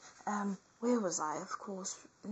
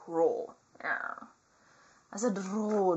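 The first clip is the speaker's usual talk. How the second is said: fierce roar; 5 dB louder, much slower than usual. Pretend. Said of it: "give me some fierce attitude".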